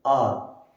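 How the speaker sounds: "आर" starting on the vowel, no h; silent h. Shown as a demonstration. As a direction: say "आर" with the h left silent. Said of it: "एच is silent". ("आर", ह के बिना स्वर से शुरू)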